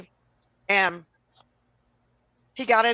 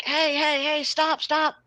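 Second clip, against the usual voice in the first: higher call to stop him; mildly shouting after the old man; 6 semitones higher, slower than usual. Retold or imitated. Yelling at old man in dream.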